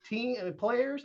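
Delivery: high, incredulous retold "What?"; stunned disbelief. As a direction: replay your own shock at being handed the job. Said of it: "And I'm like".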